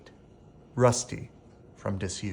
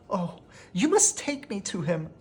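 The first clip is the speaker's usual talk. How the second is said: high, urgent plea; pleading; 8 semitones higher than usual. A narrator's reading. Belle begs the horse to take her to her father, high and urgent. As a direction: beg with growing urgency.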